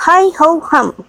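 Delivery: bright forced cheer hiding a sigh; cheerfully. A narrator's reading. Miss Pross hiding her worry from Lucy, cheerful. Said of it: "said Miss Pross cheerfully".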